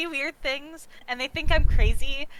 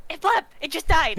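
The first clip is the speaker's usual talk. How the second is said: excited; 3 semitones higher, 4 dB louder than usual. Acted. Pointing at a dying blep.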